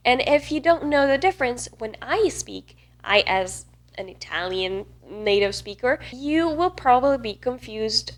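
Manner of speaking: ordinary talk, nothing marked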